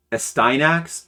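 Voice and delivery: Astyanax with STY as "sty", questioning rise; tentative pronunciation. Shown as a demonstration. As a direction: say Astyanax as "uh-STY-nax", unsure. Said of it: "I probably pronounced it wrong".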